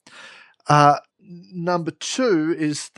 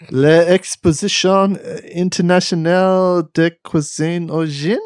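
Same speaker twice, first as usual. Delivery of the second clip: slow French said with a thick Australian accent; Aussie reading of "L'Exposition Internationale de Cuisine au Gin", slowly; 4 semitones higher, 4 dB louder, slower than usual. Real, not acted. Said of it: "you said it in a very Australian way".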